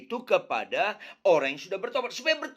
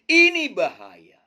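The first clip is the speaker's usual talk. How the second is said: loud warning; 8 dB louder, slower than usual. Real, not acted. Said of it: "warning the congregation".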